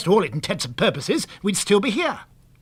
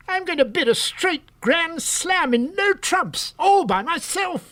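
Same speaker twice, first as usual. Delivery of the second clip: higher, slow, savoring each word; thrilled boast; 10 semitones higher, slower than usual. Acted. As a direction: announce the grand slam in triumph. Frank thrilled by once-in-a-lifetime hand.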